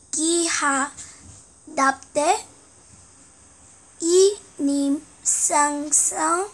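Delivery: reading Korean text backwards syllable by syllable; halting, careful backward reading; backwards speech. Shown as a demonstration. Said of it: "거꾸로 읽겠습니다".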